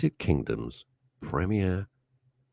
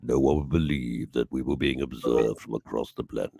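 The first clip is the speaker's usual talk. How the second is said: movie voiceover; 4 semitones lower than usual. Retold or imitated. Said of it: "Do a voiceover, War of the World".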